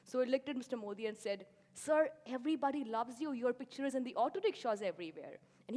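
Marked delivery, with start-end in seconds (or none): 1.7-5.4 higher, louder mock gushing; flattering praise. Colleague flattering Modi to his face, imitated gushing praise. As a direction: imitate a colleague buttering up a leader. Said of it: "he knew how to praise".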